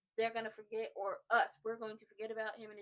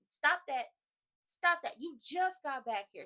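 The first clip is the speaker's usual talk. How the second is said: loud, higher-pitched telling-off; mock scolding; 4 semitones higher, 10 dB louder, slower than usual. Fan scolding Dimples for gaslighting Uncle Ron, loud and exasperated. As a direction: scold sharply and loudly, playfully exasperated.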